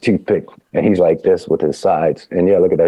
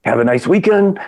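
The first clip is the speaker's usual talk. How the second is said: higher, mock-grand farewell; imitating Avery storming out; 9 semitones higher than usual. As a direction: retell his curt exit, pitched up high. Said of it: "and he goes".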